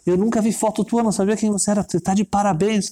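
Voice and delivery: high, eager praise; excited admiration. Acted. Fan congratulating the rabbi, excited admiration.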